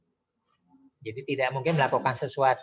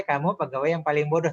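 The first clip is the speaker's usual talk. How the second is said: a higher, louder praising lilt on an insult; 3 semitones higher, 3 dB louder than usual. Shown as a demonstration. Coach demonstrates an insult in a praising tone. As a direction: praise him warmly while the words call him stupid. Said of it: "Nada yang memuji".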